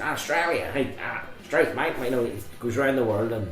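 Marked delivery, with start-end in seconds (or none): 0.0-1.9 put-on Australian accent. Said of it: "like, accents?".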